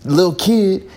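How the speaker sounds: high, indignant dad; outraged dad voice. Retold or imitated. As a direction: demand it in disbelief.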